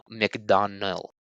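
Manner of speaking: McDonnell said slowly with no D at the end; careful pronunciation. Shown as a demonstration. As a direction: McDonnell spoken slowly, ending in a clear L. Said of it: "no D at the end".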